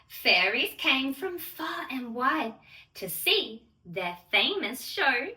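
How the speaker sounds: put-on gentle, measured read-aloud for children; storybook rhyme reading. Fairy host reading the Lola story to children, gentle and measured. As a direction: read it like a bedtime picture book.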